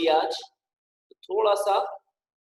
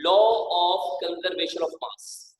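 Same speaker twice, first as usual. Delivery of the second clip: slow dictation; much slower than usual. Shown as a demonstration. Teacher dictating the law's name.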